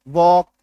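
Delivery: वॉक with no L before the K; silent L. Shown as a demonstration. Teacher reading walk after cutting the L, silent L. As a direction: say वॉक, open vowel straight into K. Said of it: "अब पढ़ो इसको".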